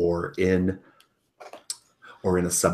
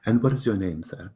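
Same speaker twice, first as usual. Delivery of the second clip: a hint of a pompous host, raised; lightly voiced fussy lord; 4 dB louder than usual. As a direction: ask with mild pompous charm.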